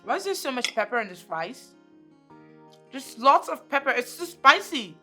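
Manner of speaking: high whining protest; whiny complaint. Acted. Daughter about the rice, high whiny complaint. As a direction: grumble about the spicy rice.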